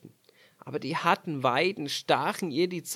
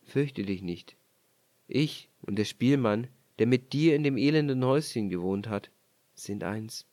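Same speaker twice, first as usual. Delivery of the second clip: sanft beruhigend, etwas tiefer; freundlich; 2 semitones lower than usual. Acted. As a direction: leise tröstend zusprechen. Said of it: "Er sprach ihr freundlich zu". (der König tröstet die Frau, freundlich)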